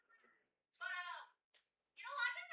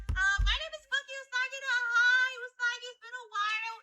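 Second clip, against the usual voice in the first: cute anime streamer; 5 semitones higher, 16 dB louder than usual. Real, not acted. Streamer introducing herself to raiders.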